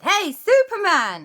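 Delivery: high loud hail; calling out. Acted. Aunt Lisa calling Superman on the phone, loud greeting. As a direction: call him like across a field.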